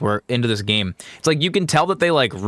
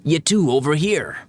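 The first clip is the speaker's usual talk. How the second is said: put-on higher-pitched amateur Irish accent; attempted Irish accent; 5 semitones higher than usual. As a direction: call over in a put-on Irish lilt. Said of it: "I can't do an Irish accent very well".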